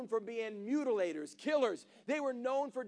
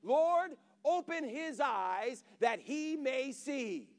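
fervent prayer; much slower than usual. Retold or imitated. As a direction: call out to God with force. Prophet praying aloud.

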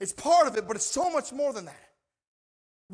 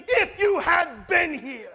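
reproach; 4 semitones higher, 3 dB louder than usual. Retold or imitated. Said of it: "They were saying".

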